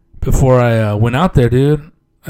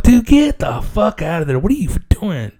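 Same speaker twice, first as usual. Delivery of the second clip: mock dad, much higher; dad urging him out, higher voiced; dad on phone; 7 semitones higher than usual. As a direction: play the dad telling him to leave. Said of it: "he's like".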